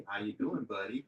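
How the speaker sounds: lightly put-on greeting to a pet dog; talking to dog. Shown as a demonstration. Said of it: "talk to my dog in a different, uh, weird sort of way".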